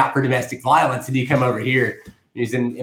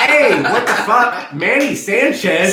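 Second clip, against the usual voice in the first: high, loud, drawn-out joking holler; mock calling out; 9 semitones higher, 6 dB louder, much slower than usual. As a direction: holler for a friend as a joke. Calling out to absent Manny.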